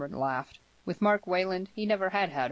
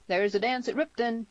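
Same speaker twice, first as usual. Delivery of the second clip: hearty, higher-pitched call; lively raised-voice announcement; 7 semitones higher, 4 dB louder than usual. A narrator's reading. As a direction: call it out across a room. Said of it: "called out Tierney".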